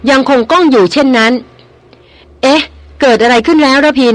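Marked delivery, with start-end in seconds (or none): 1.9-4.2 startled cry, pitched higher; stammering in alarm. A narrator's reading. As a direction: blurt it out, caught off guard. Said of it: "ร้องออกมาระร่ำระลัก". (ร้องถามละล่ำละลักด้วยความตกใจ เสียงสูงขึ้น)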